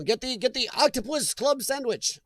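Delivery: botched attempt at a Japanese accent; failed Japanese accent. Joking about a Subway in Japan, failed Japanese accent. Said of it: "that was not a Japanese accent".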